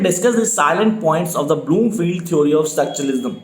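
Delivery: very slow, each word spelled out for note-taking; slow dictation. Shown as a demonstration. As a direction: dictate it slowly so students can write. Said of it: "speed definitely slow है मेरी". (धीमी गति से dictation)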